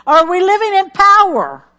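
loud, high climactic question; emphatic preaching. Real, not acted. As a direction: punch "power" at the peak.

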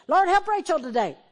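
high, loud sample prayer; a pastor demonstrating a simple spoken prayer; loud prayer demo. Shown as a demonstration. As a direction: call it out like a fervent prayer. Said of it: "I'm just saying".

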